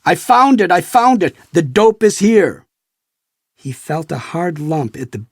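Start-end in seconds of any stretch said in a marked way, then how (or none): 0.0-2.7 high, loud triumphant shout; excited cry. A narrator's reading. Agent thinking he found the drugs, high excited shout. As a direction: crow it like you've caught him. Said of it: "in a fit of excitement".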